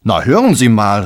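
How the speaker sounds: loud, indignant protest; exclaiming. Acted. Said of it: "rief Johannes". (entrüstet rufen)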